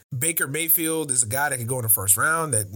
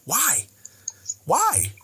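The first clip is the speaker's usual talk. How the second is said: shouted why; 8 semitones higher, 3 dB louder than usual. Real, not acted. Loud exasperated why.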